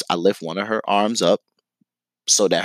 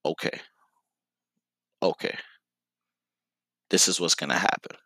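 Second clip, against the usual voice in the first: quiet to himself; 4 semitones lower, 6 dB quieter than usual. Retold or imitated. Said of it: "I'm talking to myself at this point".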